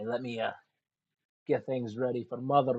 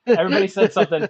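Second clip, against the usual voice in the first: loud call for order; 6 semitones higher, 10 dB louder, faster than usual. Real, not acted. GM calling over the table.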